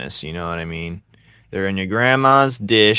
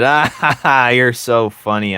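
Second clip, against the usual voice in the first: fake laugh; 4 semitones higher, 4 dB louder than usual.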